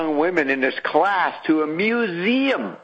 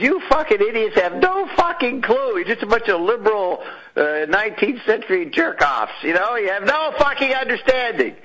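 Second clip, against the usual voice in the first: higher, scornful rant; mock rant; 5 semitones higher than usual. Scott scolding liberals, scornful higher rant. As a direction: tear into them with contempt. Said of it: "Scott comes in and says".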